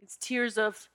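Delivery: tearful and grateful, still crying. Real, not acted. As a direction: cry through the words, moved and grateful. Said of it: "cried even more, as I am right now".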